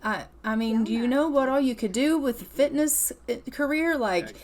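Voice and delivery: acting out an excited, encouraging dad; thrilled dad. Dad cheers on son's fitness career, mildly thrilled. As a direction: gush lightly as a proud parent.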